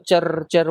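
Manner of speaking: rolled crackle noise; trilled buzzing sputter; imitated crackling. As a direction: mimic electrical crackling from a power tower. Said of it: "आवाज सुनी है क्या".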